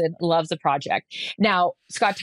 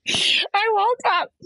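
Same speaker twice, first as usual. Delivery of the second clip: much higher, slow sing-song; sing-song wake-up; 13 semitones higher, much slower than usual. Retold or imitated. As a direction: stretch it out brightly like just waking. Mimics her cheery wake-up voice.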